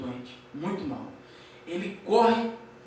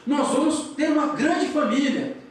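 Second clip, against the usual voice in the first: higher, slow retold protest; mock cry of protest; 5 semitones higher, slower than usual. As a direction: draw out a pleading refusal, pitched up. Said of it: "ele começa a gritar no quarto".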